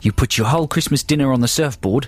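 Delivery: badly faked Aussie accent; mock Australian accent. Host tells Australian friend his day, mock Australian accent. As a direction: play a chatty Aussie mate. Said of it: "they're very poor Australian accents".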